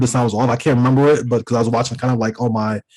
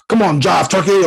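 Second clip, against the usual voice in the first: blaxploitation comic-book hero; 5 semitones higher than usual. Retold or imitated. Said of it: "very stereotypical, stereotypical black exploitation in the comic books".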